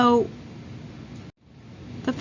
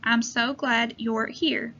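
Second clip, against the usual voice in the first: slow reading aloud; slower than usual. Shown as a demonstration. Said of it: "Read the sentence with me".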